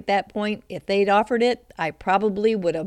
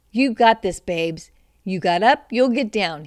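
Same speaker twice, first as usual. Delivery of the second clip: matter-of-fact; 5 dB louder than usual. Retold or imitated. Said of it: "he responded as a matter of fact".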